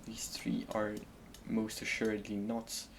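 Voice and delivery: unvoiced whispered aside. Real, not acted. Whispering to himself while sorting wood. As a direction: breathe it under your breath.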